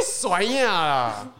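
mock angry. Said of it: "angry fruit game".

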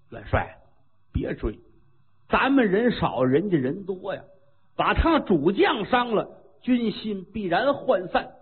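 a lightly voiced old general, steady and sure. Old general urging the marshal to pull back, lightly voiced veteran. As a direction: counsel the marshal calmly, leaning into the key words.

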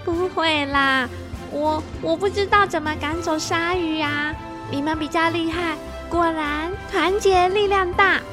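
embarrassed little laugh and modest words; shy and bashful. Acted. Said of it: "芊芊害羞又不好意思地说".

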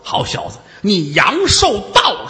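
a ghost growling, then barking out the sentence; hammed-up underworld ghost announcing death; menacing ghost. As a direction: threaten him like a demon come to collect. Ghost seizing Zhang Shifang.

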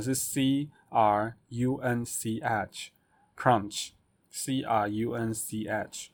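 slow letter-by-letter spelling. Shown as a demonstration. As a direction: spell each letter slowly. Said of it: "那crunch怎么拼呢？".

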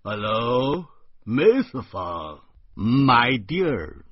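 drawn-out, showy English hello; show-off greeting in English; affected foreign-style greeting. Acted. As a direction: greet her with hammed-up English flair.

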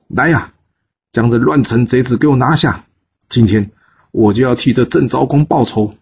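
understated rage of a duke unmasking a killer; the duke denounces the minister with restrained fury; angry. Acted. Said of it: "他当场愤怒地说".

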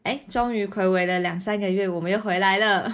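hoarse voice after a night of partying; a bit croaky, like a coming cold; hungover. Real, not acted. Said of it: "你的声音怎么了".

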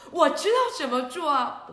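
loud, high, eager boast. Acted. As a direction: promise it gladly and loudly. Hero confident reply.

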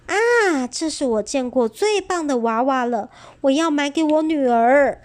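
mother admires the doll, delighted. Acted. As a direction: gush over a lovely doll. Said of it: "很高兴地说".

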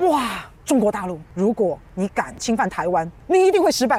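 letdown disbelief. Retold or imitated. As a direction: rise to a stunned punchline. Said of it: "我都听到前面的时候".

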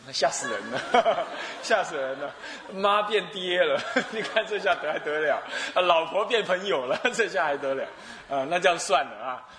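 chuckling through mock alarm; 吓死人了 said laughing, in mock fright. Real, not acted. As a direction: laugh while feigning shock at the idea. Preacher jokes about changing sex.

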